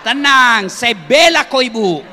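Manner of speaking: loud laughing Tenang; loud reassurance. Real, not acted. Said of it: "loud calming take".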